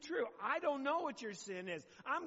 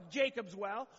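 ordinary delivery

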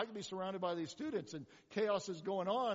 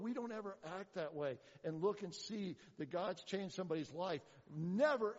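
normal talking voice

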